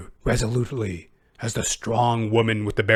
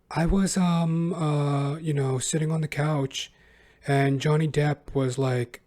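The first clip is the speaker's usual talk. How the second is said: imitating her speaking voice; 2 semitones higher, 4 dB quieter than usual. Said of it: "her speaking voice, she's just like".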